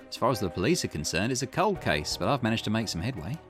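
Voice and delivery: lightly voiced investigator on a cold case; Richter. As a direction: give a case update, lightly in character.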